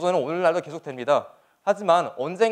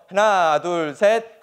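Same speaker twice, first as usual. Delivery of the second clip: loud countdown; 4 dB louder, much slower than usual. Real, not acted. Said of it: "크게 세 번 외치고".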